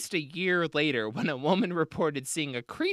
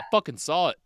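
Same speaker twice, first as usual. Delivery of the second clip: emphatic Australian witness, louder; pure confidence; 2 semitones higher, 5 dB louder, faster than usual. Acted. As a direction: state it with no doubt at all. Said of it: "pure confidence".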